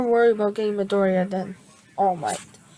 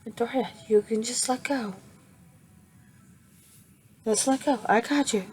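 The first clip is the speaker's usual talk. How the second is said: gentle; 2 semitones higher, 3 dB quieter than usual. Retold or imitated. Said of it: "She's gently trying to grab him".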